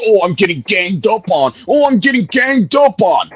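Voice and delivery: high-pitched mocking complaint; mock victim. Mocks rival playing the victim.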